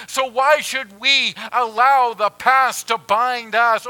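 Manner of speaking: loud, high fervent preaching; full-force preaching. Acted. Pastor preaches to the congregation at full force, loud and high. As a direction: preach it out, climbing.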